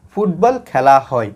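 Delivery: slow, spaced-out words; slow example reading. Shown as a demonstration. Teacher introducing a passive example to students, slow reading. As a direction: read it out word by word.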